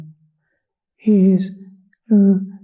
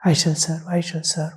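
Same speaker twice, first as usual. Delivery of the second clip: quiet vow; 6 dB quieter than usual. Acted. Voicing a devotee's vow.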